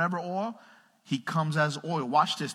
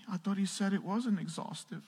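higher, softer voice through laughter; mock congregation complaint; 7 semitones higher, 5 dB quieter than usual. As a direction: laughingly imitate a doubting listener. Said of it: "some of you are like".

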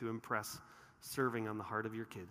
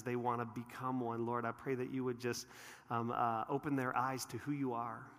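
pastoral prayer. Real, not acted. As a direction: pray over the room gently. Leads congregation in prayer.

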